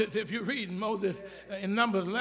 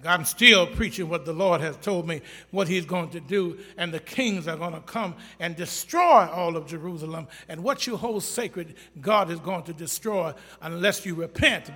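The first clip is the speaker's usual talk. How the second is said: loud prophetic warning; Jeremiah warning; 5 dB louder than usual. Acted. Jeremiah warning Pashur of judgment, loud and stern. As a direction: pronounce doom on them. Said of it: "He said".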